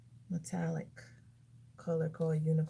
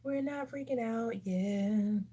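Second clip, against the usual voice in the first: slow, slightly raised, held-back delivery; drawn-out self-reassurance; 3 semitones higher, slower than usual. Real, not acted. Vlogger reassuring viewers mid-makeup, slow and restrained. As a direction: stretch it out to steady yourself. Reassures herself after a worrying result.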